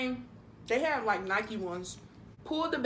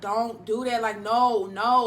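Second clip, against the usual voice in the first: retold plea, louder on each no; begging; 6 dB louder, slower than usual. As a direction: plead firmly to talk him down. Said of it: "Like, I was begging him".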